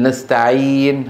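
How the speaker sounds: نستعين with a long drawn-out ee; madd letter ya. Shown as a demonstration. Teacher gives an example of ya after kasra, long madd ee. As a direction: stretch the ee in نستعين slowly. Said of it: "مد ولين".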